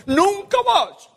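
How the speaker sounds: put-on childish stamp of the foot; whiny protest. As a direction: Jeremiah balking at God like a fretful child, high and whiny. Imagined Jeremiah protesting to God.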